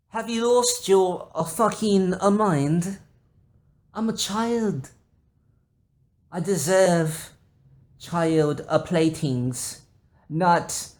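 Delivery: put-on very high, slow, pompous child voice; prissy offended child. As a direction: play a spoiled little aristocrat scolding mother. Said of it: "You just blurt it out".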